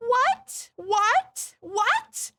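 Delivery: high, loud incredulous what; three baffled whats, each pitched high; mock disbelief. Streamer reacts to the absurd plan, high incredulous what.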